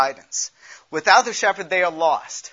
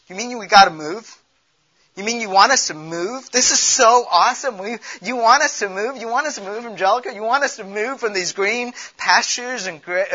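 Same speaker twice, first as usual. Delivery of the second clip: higher, louder disbelieving whine, You mean we gotta move; incredulous protest to God; 5 semitones higher, 5 dB louder than usual. Retold or imitated. Preacher voicing congregation's incredulous protest to God, higher and louder. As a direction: play the stunned sheep begging God to stay. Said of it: "The question is".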